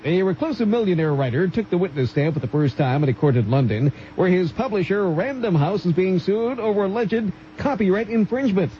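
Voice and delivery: measured radio newsreader delivery; news read. Real, not acted. Newsreader reporting a court case to radio listeners, formal news read.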